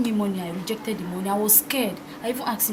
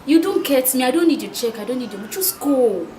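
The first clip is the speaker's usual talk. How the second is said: louder, exasperated refusal; firm refusal; 2 semitones higher, 4 dB louder than usual. Acted. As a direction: push him away with your voice. Refusing his check, pushing back.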